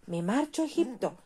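a light bird's cry across the deck; swallow calling out. A narrator's reading. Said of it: "les gritaba la golondrina".

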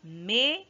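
"Mesa" syllable by syllable, first one drawn out and rising; split into syllables. Shown as a demonstration. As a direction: break "Mesa" in two, with a long pause between. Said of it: "se separa en sílabas".

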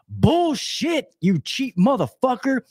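high-pitched angry wife retelling; wife going off. Retold or imitated. Wife to husband over delaying the new system, high-pitched going off. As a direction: imitate a wife cursing out her husband, high. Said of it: "she was going off".

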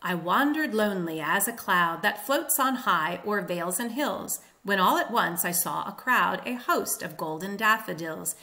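verse read on a da-DUM beat, "i WAN-dered LONE-ly"; iambic recitation. Shown as a demonstration. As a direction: recite "I wandered lonely as a cloud" metrically. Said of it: "is iambic tetrameter".

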